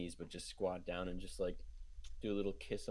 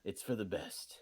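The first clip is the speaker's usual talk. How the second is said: whispered resignation; 2 semitones lower than usual. Acted. In-character consolation after farewell.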